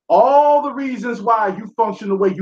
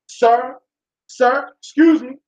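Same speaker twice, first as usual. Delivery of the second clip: mock proper nasal voice; 3 semitones higher, slower than usual. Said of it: "Start talking nasally".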